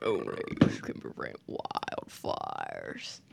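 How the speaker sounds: breathy, very low and slow imitation; whisper-growl the slogan like Smokey; Smokey Bear impression.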